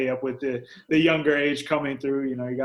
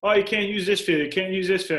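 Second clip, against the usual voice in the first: higher, louder mock scolding; mocking the rules; 6 semitones higher, 3 dB louder than usual. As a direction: parrot the field rules mockingly. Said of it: "restrictions on things of".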